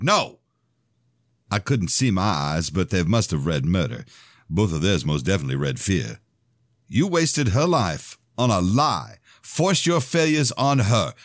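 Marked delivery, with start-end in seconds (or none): 0.0-0.4 sharp, much higher shouted "No!"; shouting. A narrator's reading. Son shouting down his father in the church. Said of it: "I shouted". 6.9-11.1 slow, much higher, every word driven home; furious accusation. A narrator's reading. Son blaming his father for his mother's wasted life, furious.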